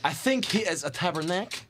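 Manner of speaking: Québécois accent, swearing tabernacle; lightly voiced Quebec French speaker. Shown as a demonstration. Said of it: "I am going to answer like this".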